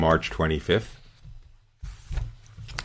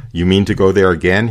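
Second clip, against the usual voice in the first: mild mock shout of an angry police chief, louder; a police chief half-shouting at a girl, louder; retold shout; 2 semitones higher, 6 dB louder than usual. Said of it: "he shouted".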